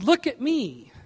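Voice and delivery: boastful show-off. Acted. Preacher mimics conceit for the congregation, boastful. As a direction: show off proudly. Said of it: "It's like being boastful".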